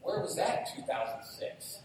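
high, loud wistful gasp; mock amazement. Pastor marvelling at the app, a loud high oh. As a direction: gasp at what you missed. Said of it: "and I'm like".

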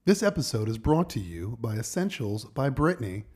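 measured podcast ad read; deliberate announcer-style plug; sponsor read. Acted.

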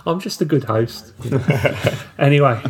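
laughing through the words. Real, not acted. Laughing reply to teasing.

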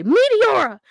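loud, high commentator call of the move; booming announcer shout of the finisher; Michael Cole call. Retold or imitated. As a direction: belt the move name like a play-by-play announcer. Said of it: "I could hear Michael Cole in my head say".

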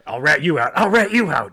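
loud, mock showdown voice; hammed-up standoff taunt; standoff threat. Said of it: "some kind of weird standoff where you're like".

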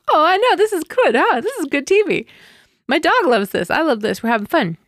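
high, delighted gushing at the TV; excited gushing. Retold or imitated. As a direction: gush like a thrilled fan. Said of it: "I'm like".

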